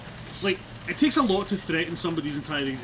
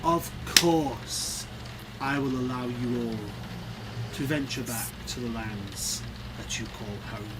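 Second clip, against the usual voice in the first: ringmaster; 3 semitones lower, 6 dB quieter than usual. Acted. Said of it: "spreads his arms like a ringmaster in a circus".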